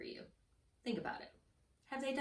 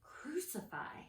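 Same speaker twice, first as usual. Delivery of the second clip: slow, high, softened yell; drawn-out mock shout; mock crowd yell; 7 semitones higher, 6 dB quieter, much slower than usual. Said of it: "the crowd started to yell".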